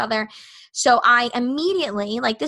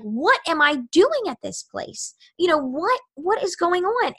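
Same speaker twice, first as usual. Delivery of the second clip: retold panic; 6 semitones higher, slower than usual. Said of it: "And I felt sick to my stomach".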